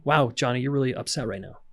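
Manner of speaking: put-on gentle, reassuring words to a toddler; calm reflecting demo. Shown as a demonstration. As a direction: show a parent calmly naming his upset. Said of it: "So that's, like, for a two-year-old".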